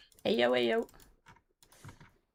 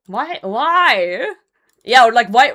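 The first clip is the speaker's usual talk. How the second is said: higher and louder each time; rising cries of why; building why; 4 semitones higher, 9 dB louder, slower than usual. Real, not acted. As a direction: escalate the question into a shout. Building rhetorical outburst.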